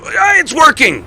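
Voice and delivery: high, slow, delighted cry; excited. Real, not acted. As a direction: cheer as it finally works. Machine starts working.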